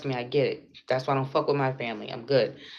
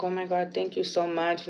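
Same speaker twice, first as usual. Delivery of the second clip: higher, softer imitation of her; grateful young woman; 4 semitones higher, 3 dB quieter than usual. Retelling a distressed young woman's thanks, higher and gentle. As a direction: lightly voice her thanks, up in pitch. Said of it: "and she was like".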